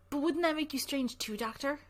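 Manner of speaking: a hint of a playful girl; teasing girl. Girl teases the doctor.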